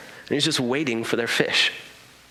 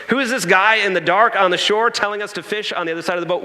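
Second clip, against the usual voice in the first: mock grumble; 4 semitones higher, 3 dB louder, faster than usual.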